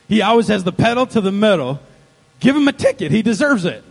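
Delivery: loud, emphatic accusing; vindictive tattling wife. Acted. Wife urging the cop to ticket her husband, accusing. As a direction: tell on him with relish.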